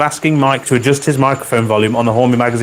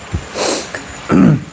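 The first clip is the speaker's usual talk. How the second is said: throat clearing. Real, not acted. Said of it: "Sorry, I'm drinking bleach".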